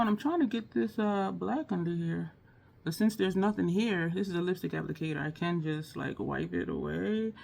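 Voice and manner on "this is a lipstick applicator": usual speaking voice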